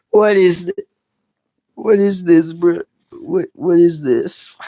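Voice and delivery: high, rising disbelief; surprised. Real, not acted. Baffled reaction to voice clip.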